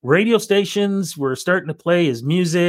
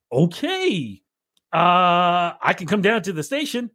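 imitating a singer; 4 semitones higher than usual. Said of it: "I'll do the imitation of it".

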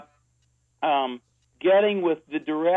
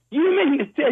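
retold screaming; 10 semitones higher, 4 dB louder than usual. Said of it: "he started screaming at me".

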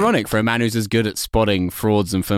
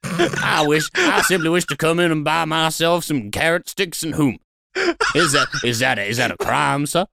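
lightly put-on genteel Southern voice; southern gentleman. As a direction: play an offended Southern gent. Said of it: "I believe there's no law against being a southern gentleman".

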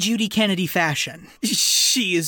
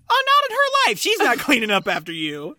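mock indignant refusal; 5 semitones higher than usual. Podcaster voicing the mother refusing to fetch towels, mock indignant. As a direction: toss it off as a huffy no. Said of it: "And she's like".

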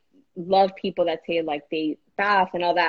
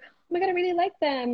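mock delighted sister; 10 semitones higher, 4 dB quieter than usual. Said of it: "she was like".

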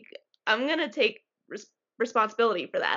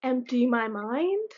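slow questioning echo; slower than usual. Pretend. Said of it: "Empty your mind".

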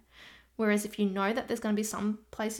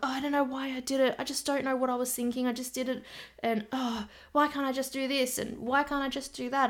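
higher, fast, panicky self-questioning; higher, fast, mock-frantic victim; 4 semitones higher than usual. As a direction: gabble it out in a higher voice, flustered. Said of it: "they're just so frantic".

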